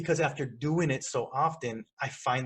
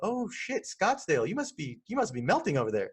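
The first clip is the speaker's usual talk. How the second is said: mock surprise; 4 semitones higher than usual. Shown as a demonstration. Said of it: "John Case over in Scottsdale".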